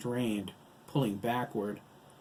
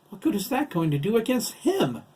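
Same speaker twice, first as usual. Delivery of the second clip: high, loud challenge; agitated, high-pitched question; incredulous panic; 11 semitones higher, 8 dB louder than usual. A narrator's reading. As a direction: demand it in disbelief and alarm. Lisa challenges a hopeless plan in panic.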